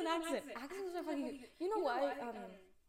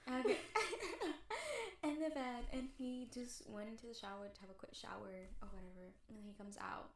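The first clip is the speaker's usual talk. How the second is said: dreamy hushed fantasy; 4 semitones lower, 6 dB quieter than usual. Pretend. Dreamy fantasy scene told softly.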